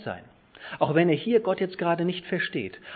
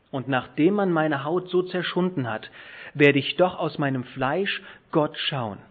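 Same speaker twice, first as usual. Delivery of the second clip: weighty pauses after "Ich weiß", then "dass mein Erlöser lebt" louder; emphatic scripture reading; 4 dB louder than usual. Shown as a demonstration. Preacher reading Job's confession with Hebrew emphases, weightily stressed. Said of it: "ich betone jetzt das".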